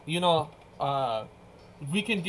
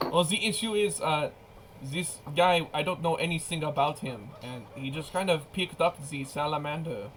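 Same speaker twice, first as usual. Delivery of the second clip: put-on French accent. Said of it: "that is a fun thing to say in a French accent".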